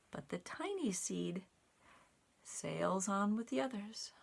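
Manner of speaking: lively read-aloud, rising on the climb; reading to children. A narrator's reading. Telling children how the seed flies up, animated storytime voice. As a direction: let the seed soar with your voice. Reads picture book aloud.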